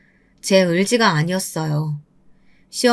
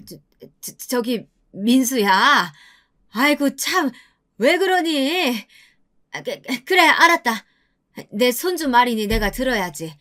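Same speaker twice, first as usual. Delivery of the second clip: grudging apology; 3 semitones higher than usual. Acted. 할머니가 마지못해 사과.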